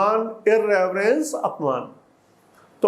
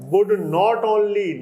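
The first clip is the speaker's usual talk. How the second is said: slow dictation reading; much slower than usual. Shown as a demonstration. Slow reading of the English text.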